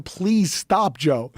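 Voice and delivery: mildly imploring a friend to quit; begging. Retold or imitated. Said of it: "I'm begging him".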